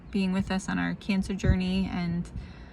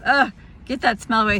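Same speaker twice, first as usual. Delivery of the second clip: disgusted; 4 semitones higher, 6 dB louder than usual. Retold or imitated. Husband disgusted by the smell.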